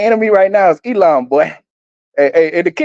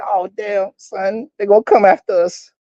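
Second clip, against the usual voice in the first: mock scared. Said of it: "they're gonna be scared and say".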